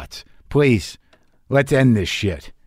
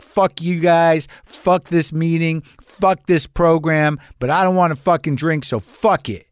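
slow, higher, drawn-out retold rant; mock angry sharing; 5 semitones higher than usual. Comic sharing at a meeting, slow and sullen with mock anger. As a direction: stretch out each curse like a sulky man at a meeting. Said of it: "I was angry when I shared in meetings".

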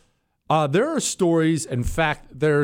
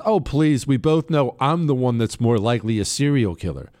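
deadpan retelling of a dismissive comeback; matter-of-fact, imitating a straight-faced wife; straight-faced retort; 2 semitones lower than usual. Wife coolly answering husband's warning about serial killers, straight-faced. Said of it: "with a straight face".

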